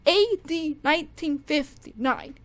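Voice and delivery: the title called out loud and sure; confident slip, said out loud; blurted wrong title. Real, not acted. Calling out the wrong song title loudly. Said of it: "not A D, ... darn it".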